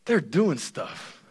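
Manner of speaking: slow, soft and puzzled; Adam, slowly, a little baffled. Retold or imitated. Adam puzzled by the paired animals, soft and slow. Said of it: "and then he's like".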